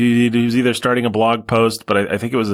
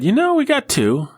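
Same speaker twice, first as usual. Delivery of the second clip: mock reasoning; 8 semitones higher than usual. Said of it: "because we said".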